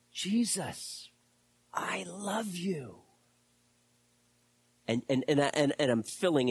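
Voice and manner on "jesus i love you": hushed slow whisper of devotion; whispered confession. Retold or imitated. Preacher voicing Peter whispering his love to Jesus. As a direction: breathe it as a tender vow.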